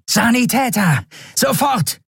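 high, urgent shout for a medic; urgent call. Acted. Officer shouting for a medic at once. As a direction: yell for help over the wounded man. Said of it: "und rief".

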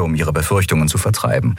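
usual speaking voice

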